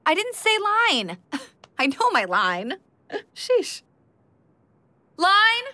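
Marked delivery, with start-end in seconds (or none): 0.0-3.8 higher, indignant retort; irritated. Acted. Actress objects to an unwanted prompt, irritated. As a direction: tell the prompter off.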